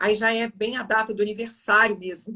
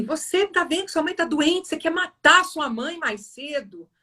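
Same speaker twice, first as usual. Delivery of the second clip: higher-pitched retold accusation; harsh reproach; 6 semitones higher than usual. Father to son about the sick mother, reproachful. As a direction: imitate a father blaming his child. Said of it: "ele fala palavras muito marcantes".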